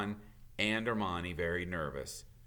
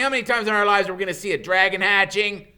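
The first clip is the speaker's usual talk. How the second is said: put-on fast, loud and much higher, eager boy; eager pleading; 10 semitones higher, 12 dB louder, much faster than usual. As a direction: urge her excitedly, talking fast.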